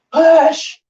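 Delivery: straining yell while shoving; pushing something heavy. Real, not acted. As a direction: heave with full effort. Straining to push heavy fireplace.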